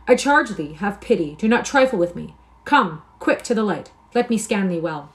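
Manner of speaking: urgent excitement. Acted. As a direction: hurry him into the light. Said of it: "he exclaimed".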